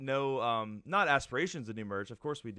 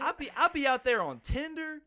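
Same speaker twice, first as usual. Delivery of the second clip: high, loud put-on African American accent; hammed-up African American accent impression; 13 semitones higher, 6 dB louder than usual. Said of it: "That's my Matt Rife impression".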